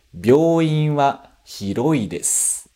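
"Byouin" slow, long o; teacher reads slowly, syllables clear; Japanese sentence drill. Shown as a demonstration. Teacher reading drill sentence slowly. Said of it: "pronúncia de palavra".

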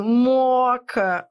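Moca drawn out, falling; modeling pronunciation. Shown as a demonstration. Teacher repeats Moca so students copy it. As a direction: savour Moca slowly. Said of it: "É assim que você tem que falar".

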